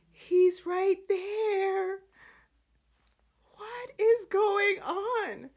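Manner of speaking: high, drawn-out incredulous wail; slow, high-pitched plea of disbelief; exasperated disbelief. Real, not acted. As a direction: stretch each word out in exasperation. Exasperated at the show's policeman.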